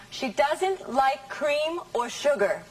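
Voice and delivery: doesn't, like, cream and sugar leaned on; stressed words. Shown as a demonstration. Teacher models a sentence for stress practice. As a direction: read it slowly, punching doesn't. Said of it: "Which words are stressed here?".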